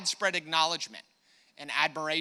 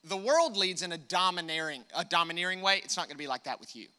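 voicing Jesus. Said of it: "This is what he says".

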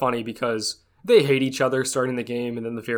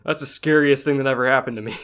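mock terror; 4 dB louder than usual. Character overreacting to collapse.

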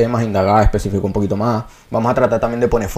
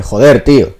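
plain Castilian Spanish delivery; Castilian Spanish accent; 5 dB louder, slower than usual. Shown as a demonstration. Showing friends how Spain says it, Castilian accent. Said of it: "en español castellano dice".

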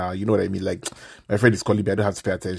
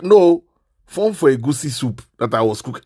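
sarcastic retort; 5 semitones higher, 6 dB louder than usual. Retold or imitated. Sarcastic answer to friend's question.

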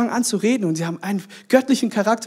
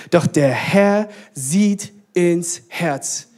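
measured, deliberate Bible reading; scripture reading; slower than usual. Acted. Preacher reads Samuel verse to congregation, solemn measured reading. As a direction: read the verse aloud, slowing markedly at the end.

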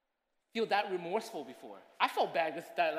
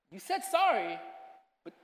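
doubting God; 2 semitones higher than usual. Pretend. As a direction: speak as God doubting the apology. God voiced questioning believer.

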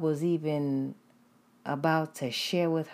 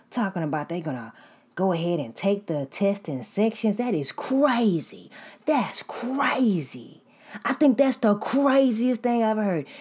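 mimicked classmate; 4 semitones higher than usual. Imitating classmate's rant about sections.

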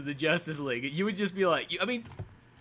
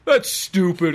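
mock scoff; 6 dB louder, slower than usual. Mocking movie characters scoffing at names.

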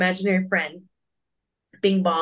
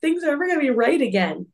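upset Bing Bong; 6 semitones higher than usual. Retold or imitated. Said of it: "he's like".

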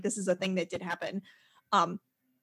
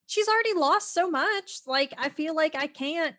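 higher-pitched amateur British accent, imitating Lisa; hammed-up British accent for a reluctant boss; terrible British accent; 5 semitones higher than usual. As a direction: plead gently in a badly faked British accent. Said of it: "That was a terrible accent".

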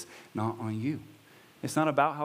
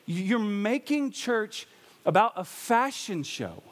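high, slow mock reprimand; Paul chiding; 8 semitones higher, slower than usual. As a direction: scold the women for dressing up. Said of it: "and he's like".

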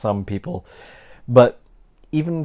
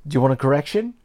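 store clerk offering; 4 semitones higher, faster than usual. Retold or imitated. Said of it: "the woman at the store would be like".

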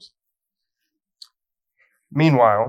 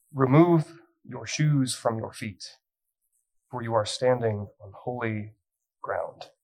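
slow, measured pronouncement with long pauses; weighty, deliberate scripture reading; solemn divine command; 3 dB quieter, slower than usual. Acted. Slowly re-reading God's command to Moses.

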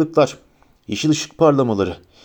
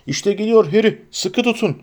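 calling out; 6 semitones higher than usual. A narrator's reading. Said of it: "diye seslendi Hagrid".

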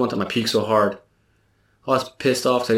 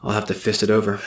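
cocky voice. Acted. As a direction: say it like you own the room. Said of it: "in a very cocky voice".

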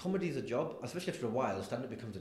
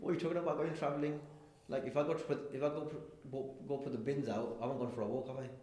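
higher, teasing disbelief; incredulous mock roast; 5 semitones higher than usual. Comedian teasing a fan about his trip, incredulous. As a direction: poke fun at his big claim. Roasting fan's fake career break.

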